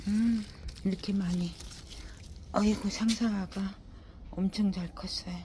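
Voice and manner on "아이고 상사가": ordinary talk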